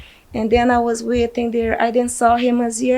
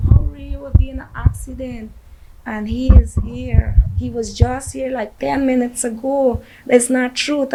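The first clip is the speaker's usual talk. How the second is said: a mother half-shouting her disbelief; louder, raw protest that it can't be true; retold scream; 2 semitones higher, 3 dB louder than usual. Mother hearing her son was hurt, retold mild shout. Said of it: "And I was screaming".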